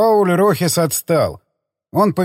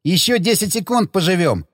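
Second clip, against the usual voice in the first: manic laughter; 4 semitones higher than usual. Acted. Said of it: "ещё сильнее расхохотался он".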